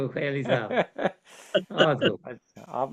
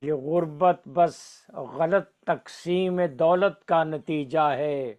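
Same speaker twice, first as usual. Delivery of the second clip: stately nazm recitation; slower than usual. Acted.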